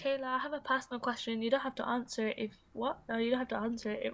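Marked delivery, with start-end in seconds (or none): 0.0-2.5 softly voiced, careful imagined questioner; imagined personal-question asker. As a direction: lightly imitate someone asking delicately. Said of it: "that's how it sounds in my head".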